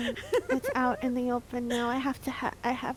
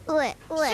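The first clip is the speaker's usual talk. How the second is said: fake crying sound; 4 semitones higher than usual. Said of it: "I can cry on command".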